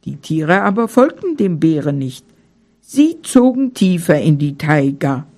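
calm storyteller reading a bedtime tale; fairy tale narration. A narrator's reading. Narrator reading a bedtime tale to children, calm. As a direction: tell it gently to the children.

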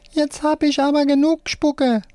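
high squeaky puppet yelling; squeaky puppet shriek. A narrator's reading. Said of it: "linke Hand schreit".

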